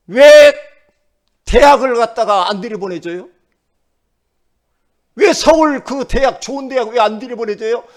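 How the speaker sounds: high, loud indignant complaint; sulky protest. Acted. Nephew complaining to God about college, sulky protest. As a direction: protest loudly like someone feeling cheated by God. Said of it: "삐질만도 하잖아요".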